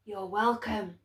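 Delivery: creaky faraway dark; a calm, cold reply; distant dark answering politely; the dark's voice. A narrator's reading. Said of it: "The voice of the dark was as creaky".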